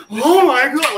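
high, loud imitation of weeping shock; hammed-up tearful outcry; mock tearful. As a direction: wail it like a horrified paramedic. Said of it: "he's like, tears at".

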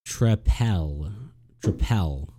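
"trepel" sounded out slowly as truh-PELL; looked-up pronunciation. Shown as a demonstration. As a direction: say "trepel" with a full PEL ending. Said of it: "Let's see, pronunciation".

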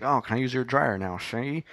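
lightly imitated old-time gangster; a touch of Dick Tracy gangster; twenties gangster. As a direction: ask it like a movie mobster, lifting the last word. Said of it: "He sounded like a nineteen twenty gangster".

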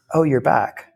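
lightly imitated sweet, kind tone; a hint of a gentle waitress soothing a stranger; sweetest voice. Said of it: "the sweetest voice".

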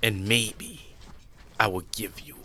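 lightly voiced cruel emperor; a hint of a cold tyrant; cold rasping evil emperor. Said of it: "Emperor Zheng is protected by Xena".

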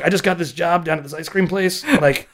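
slow, high, laughing stoner drawl; stoned voice. Retold or imitated. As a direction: talk like you're baked and giggly. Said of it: "you're so high right now".

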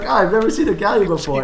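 just a hint of a curious kid; twelve-year-old voice. Kid exploring a galleon, lightly done twelve-year-old voice. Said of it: "Twelve-year-old accent?".

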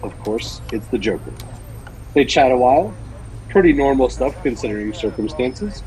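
dramatic story reading; story narration. Acted. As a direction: read it like an audio drama narrator. Reads Batman story aloud.

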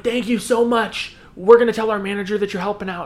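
a hint of gushy girl voice; lightly voiced grateful girls. Coffee shop girls thank the man helping out, lightly gushing.

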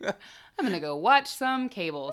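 slow put-on voice; mocking delivery; mock announcement. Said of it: "Said not me".

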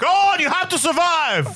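laughing, high strained hero plea; hammed-up dying soldier, cracking up; wounded soldier gasping. Mock dying hero speech.

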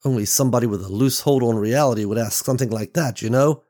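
agitated accusation. Acted. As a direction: unload your fear on him. Beverly confronts kidnapper angrily.

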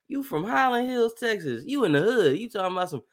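high, teasing grandma scolding. Retold or imitated. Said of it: "she was like".

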